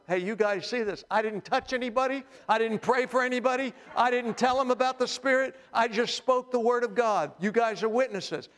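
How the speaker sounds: high-pitched, emphatic mock defensiveness; protesting innocence. Peter defending himself to fellow Jews, protesting innocence.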